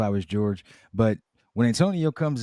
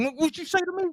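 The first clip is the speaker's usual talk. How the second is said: high, squeaky mock confrontation; hammed-up tough guy challenge; 3 dB quieter, much faster than usual. Acted aggressive retort, high.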